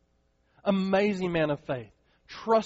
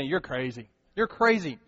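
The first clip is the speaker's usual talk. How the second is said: mocking. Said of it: "Now they just say".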